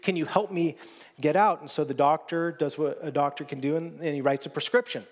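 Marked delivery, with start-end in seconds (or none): 0.0-1.6 mock shout from the hole. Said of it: "he shouts out from the hole".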